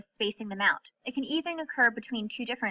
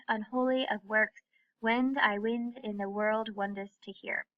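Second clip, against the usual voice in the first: put-on reading Old English verse. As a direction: read it like an ancient poem, measured. I'm gonna do my best to read this.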